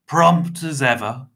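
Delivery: hearty, slow booming voice. A narrator's reading. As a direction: boom it out with relish. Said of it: "Mister Tiny boomed".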